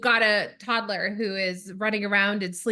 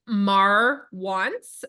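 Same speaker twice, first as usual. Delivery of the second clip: put-on 1 Sesame Street toddler; 4 dB louder than usual. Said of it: "she sounded like a Sesame Street character".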